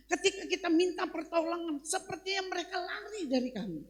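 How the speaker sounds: high, pleading sermon delivery; fervent retold lament; impassioned preaching. Preacher retells pleading with God.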